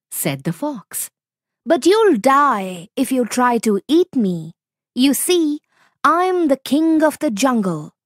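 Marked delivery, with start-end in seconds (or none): 1.6-5.6 calm little fox staying cool; clever fox. Acted. Fox bluffs the tiger. 6.0-7.9 high, bold fox voice claiming the crown; bluffing fox. Acted.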